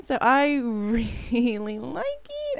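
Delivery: breathless, panting between words; winded, catching breath. Real, not acted. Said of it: "I'm out of breath".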